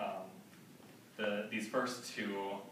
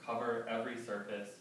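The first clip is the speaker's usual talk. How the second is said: deliberate, evenly paced verse recital; poetry reading. Acted. Poet reading a prison guard's account in verse, measured recital. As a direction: recite it phrase by phrase, with weighted pauses. Reads epigraph and poem.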